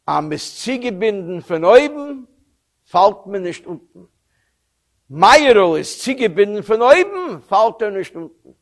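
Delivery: put-on quoting the rebbe with a light Yiddish accent; gently Yiddish-accented folk saying. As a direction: give the old rebbe's saying a touch of Yiddish lilt. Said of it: "in his Yiddish accent".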